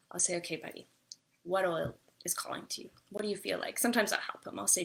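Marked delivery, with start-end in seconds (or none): 0.4-3.8 hushed, half-whispered coaxing; soft hush to child. Retold or imitated. Mother hushes her upset son while he picks an oil, half-whispered. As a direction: whisper gently to draw him in. Soothing son, choosing oils.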